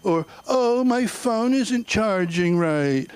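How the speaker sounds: lightly voiced whining celebrity; complaining diva. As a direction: whine it like a pampered star. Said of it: "she was like".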